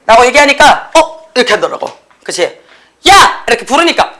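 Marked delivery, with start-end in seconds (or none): 0.9-1.3 high, short "huh?"; a daydreamer jolted to attention; mock startled question; startled response. Acts the startled student answering. 3.1-3.4 sudden high "hey!"; abrupt, high-pitched mock shout; calling out. Repeats the call to the student.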